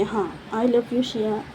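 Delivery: slow, drawn-out mock I love you; teasing imitation. The speaker teasing Shiya by copying Arya, slow mock sweetness. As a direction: mimic the lovey-dovey call to tease. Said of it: "ऐसे करके वो बोलते हैं".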